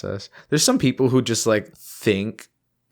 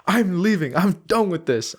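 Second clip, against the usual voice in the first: mock yell; 7 semitones higher than usual. Friend voicing somebody who storms out, mock yell. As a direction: imitate someone announcing a walkout, mildly. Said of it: "and then somebody yells".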